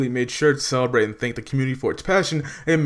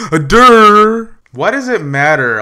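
mocking dumb voice; 7 semitones higher, 9 dB louder, slower than usual. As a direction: gasp then high, loud dopey "durr". Mocking a dim person.

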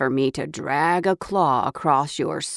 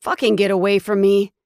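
snarl; 3 semitones higher, 4 dB louder than usual. Acted. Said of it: "I snarled at him".

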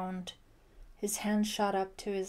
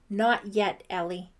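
loud, effortful gasp; 8 dB louder than usual. A narrator's reading. Brian pinning Ellie on the sofa, gasped. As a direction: get it out with a touch of breathlessness. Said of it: "he gasped".

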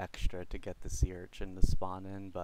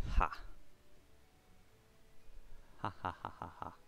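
breathless laughing; 3 semitones lower, 9 dB quieter, faster than usual. Real, not acted. Breathless laugh at rare hat.

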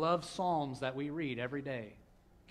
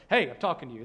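put-on louder call to ignoring kids; parent calling out; 2 semitones lower, 8 dB louder, faster than usual. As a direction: raise the voice so the kids hear.

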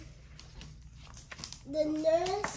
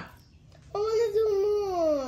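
whiny plea; 3 semitones higher, much slower than usual. Real, not acted. Child whining to keep going.

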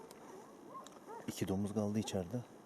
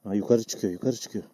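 calling out loud across the hills; shouting; 11 dB louder than usual. Real, not acted. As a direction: shout it so the others hear. Hunter shouting across the valley.

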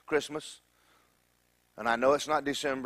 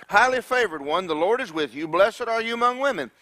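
louder and higher, jubilant; hammed-up angel; 5 semitones higher, 4 dB louder than usual. Angel proclaiming the greeting to startled Mary, jubilant. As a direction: proclaim it grandly to her. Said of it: "read it as though Mary".

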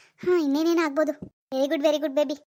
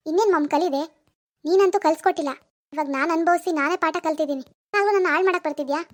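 louder, bitter comeback; angry retort; 3 dB louder than usual. Acted. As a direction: throw it back at her, loud. Daughter shouts back at mother.

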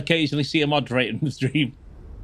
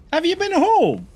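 put-on Irish accent; 8 semitones higher than usual. Streamer teasing viewer Flash, in a mock Irish accent. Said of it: "That's what the Irish do".

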